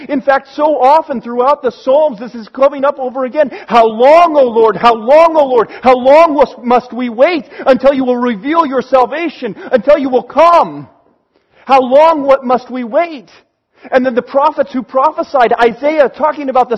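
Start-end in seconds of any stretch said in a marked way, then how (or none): 3.7-13.3 anguished cry. Acted. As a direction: cry out to God, pleading and impatient. Psalmist crying out to God.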